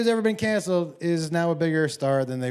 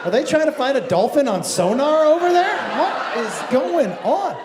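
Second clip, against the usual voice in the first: 1 incredulous; 3 semitones higher than usual. Retold or imitated. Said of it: "And I was like".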